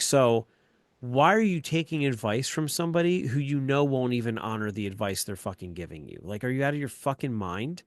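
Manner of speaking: loud, high, incredulous scolding; retold angry rant. Dad demanding why his daughter takes that advice, loud angry rant. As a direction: re-enact an exasperated dad's tirade. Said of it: "I lost my shit".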